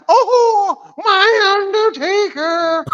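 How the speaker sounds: high squeal broken by laughter; laughing too hard to get it out. Real, not acted. Laughing at a lookalike photo.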